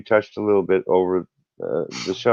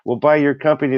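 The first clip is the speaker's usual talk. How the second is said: higher-pitched, eager sales flattery; gushing buyer; 4 semitones higher than usual. Retold or imitated. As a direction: mimic buyers gushing over a company. Acting out gushing company buyers.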